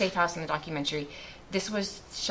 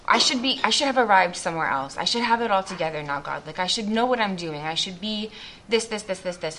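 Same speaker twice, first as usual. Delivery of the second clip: louder, hurried list of shoulds; self-reproach; 3 semitones higher, 5 dB louder than usual. Acted. Speaker berating themselves after reading the Beatitudes, self-reproachful. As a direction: pile up the self-demands, rushing through.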